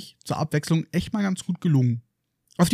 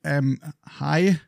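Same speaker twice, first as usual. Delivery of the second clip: unsure; 3 dB quieter than usual. Acted. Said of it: "Etwas unsicher sagt Harry".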